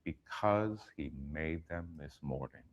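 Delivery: executive impression. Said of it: "He goes".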